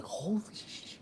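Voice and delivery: high whispered oath, cut short; shocked whisper, retold. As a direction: whisper it in mock shock, breaking off. His shocked reaction, retold.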